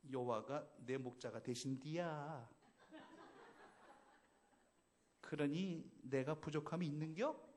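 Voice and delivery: slow, drawn-out Chungcheong accent with a laugh; lazy, unhurried Chungcheong drawl; 느릿한 충청도 사투리; Chungcheong dialect. Shown as a demonstration. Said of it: "충청도는 어떻게 할까요?".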